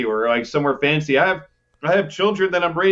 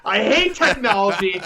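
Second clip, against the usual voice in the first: mock fury; 4 semitones higher than usual. Real, not acted. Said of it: "I'm so angry right now".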